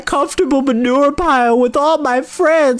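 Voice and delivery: high, loud tearful piglet voice; tearful pleading. Acted. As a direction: plead through tears. Pig sobbing about dying.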